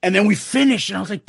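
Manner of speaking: ordinary talk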